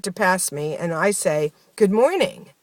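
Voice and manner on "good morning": higher, lightly sarcastic greeting; tinge of sarcasm. Retold or imitated. Dreamer greeting people who pass her, with a tinge of sarcasm. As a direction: greet them with a slightly pointed edge. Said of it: "with a tinge of sarcasm".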